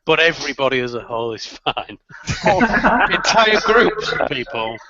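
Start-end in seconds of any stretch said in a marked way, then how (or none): 2.4-4.8 high laugh, then slow words in disbelief. Real, not acted. Co-host mocking the claim about offending people, laughing disbelief. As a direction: laugh it off, then drag it out incredulously.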